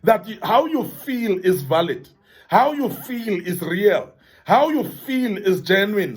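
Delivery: calm, reassuring validation; gentle reassurance. Shown as a demonstration. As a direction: say it slowly, like comforting a friend. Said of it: "We need to say these words".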